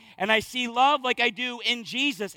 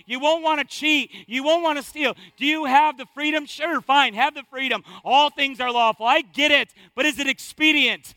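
louder, rising, driving each line home; full-force preaching; 4 dB louder than usual. Real, not acted. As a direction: press the congregation with every line.

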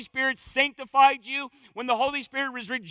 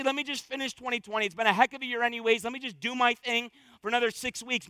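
quick, softer mock procrastinator; mock excuse; 3 dB quieter, faster than usual. Preacher voicing a listener who puts off repentance, quick and casual. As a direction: toss it off like a lazy excuse. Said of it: "You can't say".

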